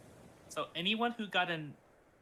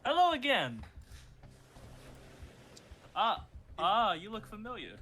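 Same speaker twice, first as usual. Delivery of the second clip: dopey cartoon bellow; 7 semitones higher, 3 dB louder than usual. GM voices the bandit leader.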